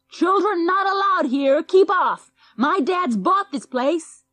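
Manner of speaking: loud yell. A narrator's reading. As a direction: shout the kids off like a spoiled brat. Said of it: "yelled loudly".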